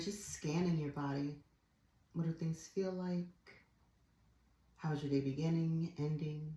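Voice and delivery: gentle guided-practice voice with pauses; guided relaxation. Real, not acted. Yoga teacher guiding students to drop their shoulders, guided relaxation. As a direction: ease them into letting go, unhurried.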